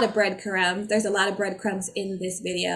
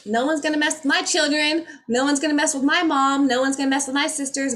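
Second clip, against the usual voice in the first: louder, higher protective outburst; protective anger; 5 semitones higher, 3 dB louder than usual. Retold or imitated. A parent triggered over family, louder and higher. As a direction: defend your family fiercely. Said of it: "because you're like".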